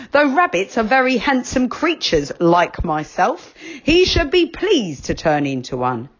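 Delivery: a self-satisfied rabbit talking down; vain rabbit. A narrator's reading.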